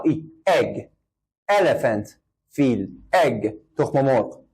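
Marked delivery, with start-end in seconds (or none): 0.0-0.2 ای as a short e, not a long ee; teacher models a short e, not a long one; short e sound. Shown as a demonstration. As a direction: clip ای to a brief e. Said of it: "ای کشیده نه".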